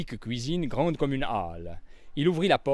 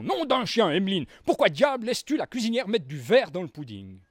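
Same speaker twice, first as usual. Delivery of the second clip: roaring colonel; 5 semitones higher than usual. Acted. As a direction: bellow at his wife. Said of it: "en rugissant". (rugissement outré du colonel)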